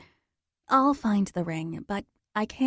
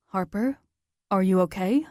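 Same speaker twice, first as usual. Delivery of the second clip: Zach's concern. Acted.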